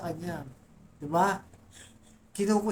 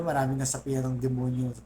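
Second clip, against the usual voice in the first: ordinary delivery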